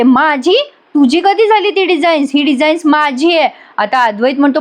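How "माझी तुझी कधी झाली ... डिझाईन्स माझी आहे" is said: lightly acted indignant snap, pitch rising; mock angry retort. Kala mock-angrily reclaims designs from husband. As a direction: claim the designs back with mild mock anger. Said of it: "कला चिडते आणि म्हणते".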